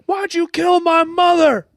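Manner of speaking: high, anguished mock scream; yelling. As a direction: wail it out like a distraught son. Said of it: "he starts yelling".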